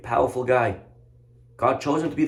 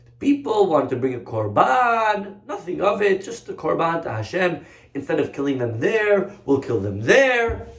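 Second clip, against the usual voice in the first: wriggle out of it in a higher voice; excuse-making king; 5 semitones higher than usual. Acted. King explains the sheep to the prophet, making excuses.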